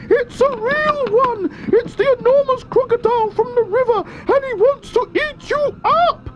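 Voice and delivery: high, sing-song bird voice; roly-poly bird voice. A narrator's reading. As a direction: squawk it out like a little bird. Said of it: "sang the roly-poly bird".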